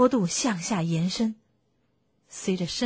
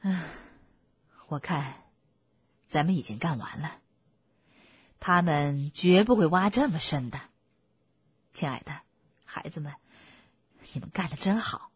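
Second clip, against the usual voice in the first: weary relief; 3 semitones lower than usual. Acted. Panting fox praises family after digging.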